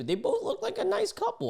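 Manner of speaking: laughing through the words, pitched high. Real, not acted. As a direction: giggle it out in disbelief. Amused defending the couple.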